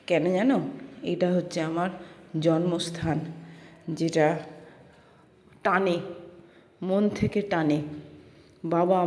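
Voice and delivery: measured storytelling with frequent pauses; voice-over narration. A narrator's reading. Vlogger recounting arrival at a cherished birthplace, paced narration. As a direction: narrate in short, deliberate phrases.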